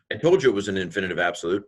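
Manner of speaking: quick, playful "told" with a rise; smug little I-told-you-so; mock know-it-all. Teacher mocks himself after checking the answer. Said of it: "my I dream of Jeannie moment".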